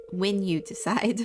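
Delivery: "when" given extra weight, presuming the choice; stress on when. Acted. Store representative presuming the newcomer will join, stress on "when". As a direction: lean on "when" as a certainty. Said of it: "when, not if".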